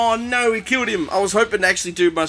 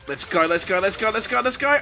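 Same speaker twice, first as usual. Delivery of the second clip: mounting urging. Real, not acted. Urging himself on, building.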